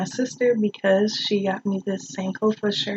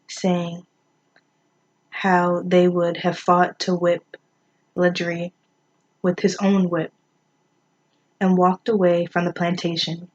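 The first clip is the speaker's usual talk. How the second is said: measured poetry reading with pauses between lines; understated recital, pausing at each break; poem reading. Acted. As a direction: read the poem aloud evenly, line by line. Reads a second poem aloud.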